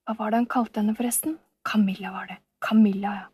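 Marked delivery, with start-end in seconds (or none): 1.7-3.2 whispering to himself; villain memorising a name, whispered; whispered mumble. Acted. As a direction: mutter the name half-aloud.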